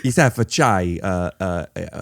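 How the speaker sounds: halting mock Italian accent. Shown as a demonstration. Guest keeps ordering on a dare, halting Italian accent. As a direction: stumble along in a put-on Italian accent. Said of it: "I can do an Italian accent".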